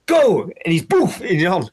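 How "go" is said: mock shout. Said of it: "as if he goes".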